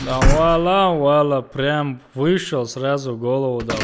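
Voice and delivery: loud, thrilled brag; excited bragging. Real, not acted. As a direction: shout it out after a kill. Boasting of a headshot kill.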